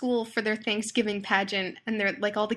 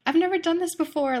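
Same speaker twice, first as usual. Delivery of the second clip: excited; 8 semitones higher, 4 dB louder than usual. Retold or imitated. Excited heroine on the phone.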